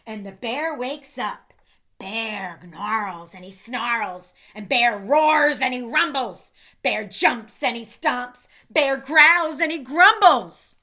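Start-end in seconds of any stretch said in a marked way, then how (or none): 2.0-10.8 rising louder with each line; building angry narration. A narrator's reading. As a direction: grow into the bear's rumbling temper. Narrating the bear's rage.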